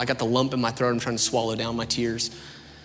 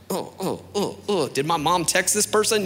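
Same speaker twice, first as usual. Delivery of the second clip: higher, rising startled gasps; mock alarm; 6 semitones higher than usual. Teen hearing the sermon hit home, mock startled panic. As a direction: act caught out in the pew. Feeling the speaker targets him.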